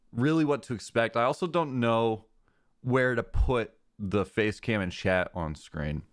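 ordinary delivery

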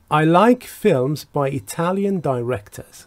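slow, clear English example read; slow model reading. Shown as a demonstration. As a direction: read it out slowly for learners. Teacher reads example slowly. (خواندن آهسته و شمرده)

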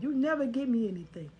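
a touch of heated complaint; retold argument. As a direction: lightly act out the angry girlfriend. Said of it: "we had an argument in which I said".

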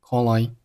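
"call I" joined as one word; linked words. Shown as a demonstration. Teacher showing learners linking, "call I" run together. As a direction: carry the l of "call" into "I". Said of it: "call和I又连读成了".

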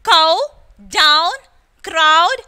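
Cow, down, crowd loud with an "ow" glide; OW as in how. Shown as a demonstration. Teacher reviewing the how column, OW demo. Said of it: "Pronounced as in how".

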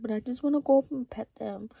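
put-on baby voice. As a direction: whine it like a little girl. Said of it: "doing a baby voice".

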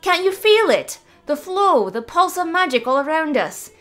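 put-on high, loud teasing girl's voice; cheeky young druid. Mavis mocking the wizard's popularity, high teasing. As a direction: needle the old man playfully. Mavis enthusing about magic.

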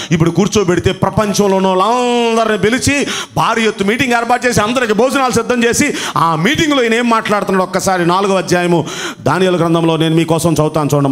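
usual speaking voice

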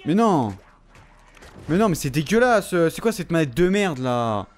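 loud frustrated rant at the controller; angry outburst. Real, not acted. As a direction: blow up at a broken controller. Rage at broken controller.

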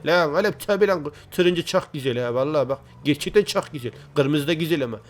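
lightly voiced character reply; Recep abi. Recep abi answering which car colour he likes, light impression. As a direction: answer as a casual buddy, lightly put on. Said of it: "sanırım Recep abi".

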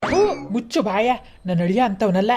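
high, sharp rebuke to shut her up; scolding retort. Acted. Mother scolds daughter in quarrel.

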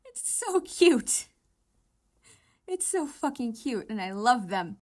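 slow, loud gushing squeal. Real, not acted. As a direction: gush over how cute. Gushing loudly.

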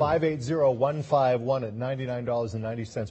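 upbeat sales pitch, pushing the deal; home shopping host. Acted. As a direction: sell it like live TV shopping. Host reads item number, price.

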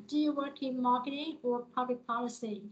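"marketing" rising, "policy" falling; choice-question tune, up at "marketing", down at "policy"; rise then fall. Shown as a demonstration. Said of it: "là lên rồi xuống".

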